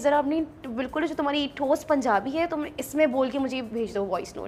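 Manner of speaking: plain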